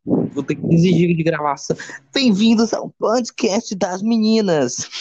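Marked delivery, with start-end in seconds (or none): 2.1-4.9 put-on girly host voice. Mock girls' podcast intro.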